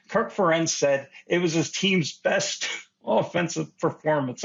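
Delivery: chuckling through the words; trying not to laugh; laughing while speaking. Real, not acted. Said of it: "I can't even say this with a straight face".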